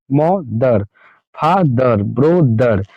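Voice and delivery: "मदर, फादर, ब्रदर" each in two separate beats; split into syllables. Shown as a demonstration. Teacher listing two-syllable examples, "मदर, फादर, ब्रदर" each split before दर. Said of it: "दो बार हम अटकते हैं".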